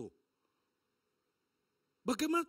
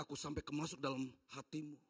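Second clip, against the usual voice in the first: low solemn voice of God; 6 semitones lower, 7 dB quieter than usual. Acted.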